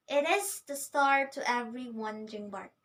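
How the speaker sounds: "It is the star to every wandering bark" read with light da-DUM beats; iambic reading. Shown as a demonstration. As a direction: lean on every second syllable. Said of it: "Da-dum, da-dum".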